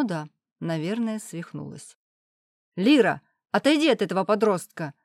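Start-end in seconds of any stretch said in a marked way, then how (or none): 2.7-4.9 louder stern order; commanding. Acted. Father orders daughter away from the teenager, loud command. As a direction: order her away like a strict parent. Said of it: "велел он мне".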